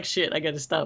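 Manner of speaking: mock frightened, backing-off, spooked tone. Mimicking another speaker who has just got scared: imitating someone scared. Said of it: "Now he's scared. He's like".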